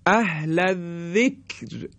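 اهل ذکر recited slowly, the ر kept thin and light; light R recitation. Shown as a demonstration. Teacher demonstrates the thin ر to the class in slow recitation.

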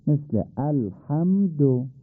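slow, with ح in الحمد rasped from the throat; careful Arabic h. Shown as a demonstration. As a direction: stretch out الحمد and scrape the ح. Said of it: "حو". (الحمد آهسته با ح حلقی)

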